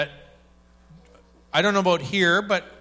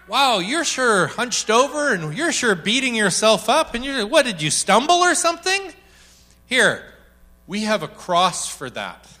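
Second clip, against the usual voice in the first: gentle Holy Spirit; 6 semitones higher, 3 dB louder than usual. Acted.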